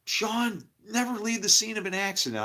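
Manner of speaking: retold stern lecture; lecturing. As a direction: say it like a lesson. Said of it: "And I went".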